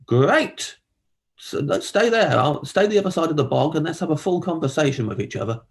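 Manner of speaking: sarcastic reply. Retold or imitated. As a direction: fake enthusiasm, dragged out. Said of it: "I'm like".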